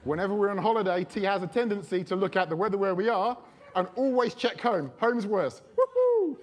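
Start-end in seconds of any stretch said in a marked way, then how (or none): 5.8-6.4 high, loud sarcastic woohoo; gleeful mock celebration; mock cheer. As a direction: cheer it like the bad news is a win. Mock cheer at worse home weather.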